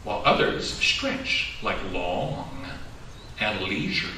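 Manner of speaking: slow, gentle picture-book reading; reading to children. A narrator's reading.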